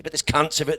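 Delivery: blunt Aussie outburst. Retold or imitated. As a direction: protest it bluntly. Steve's angry Aussie line.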